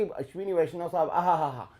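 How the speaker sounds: hushed mock awe; mock gushing praise. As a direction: imitate an admirer sighing "aha-ha-ha". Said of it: "भयंकर तारीफ कर रहा है".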